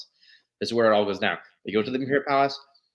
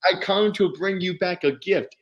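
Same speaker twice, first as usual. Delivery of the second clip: Yoda's parting threat; 8 semitones higher than usual. Retold or imitated. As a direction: deliver a menacing gift line, raised. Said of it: "And he's like".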